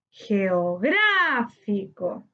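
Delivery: "geográfico" very slow, long stressed GRÁ. Shown as a demonstration. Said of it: "su sílaba tónica en gra". ("geográfico" muy lento, alargando GRÁ)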